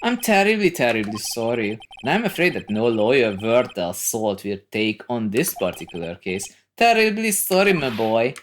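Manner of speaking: Marvin Grossberg. Acted. Lawyer tells young visitor nobody will help, pompously regretful. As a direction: apologise grandly while refusing.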